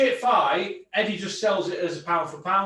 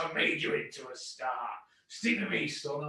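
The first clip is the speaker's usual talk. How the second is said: Dennis impression; 4 semitones lower, 7 dB quieter than usual. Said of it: "I'll do my Dennis impression".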